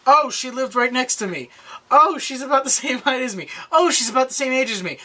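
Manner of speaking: high, mock-oblivious voice; imitated naive chatter. Mocks character's oblivious remarks.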